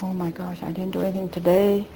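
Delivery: hushed, worried inner thought; a soft, nervous aside; half scared. Retold or imitated. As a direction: mutter it to yourself in a quiet panic. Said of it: "half scared".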